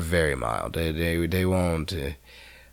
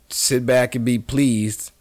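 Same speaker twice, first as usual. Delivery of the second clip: slow announcer intro; 5 semitones higher, 4 dB louder than usual. Shown as a demonstration. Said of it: "announcer-style intro".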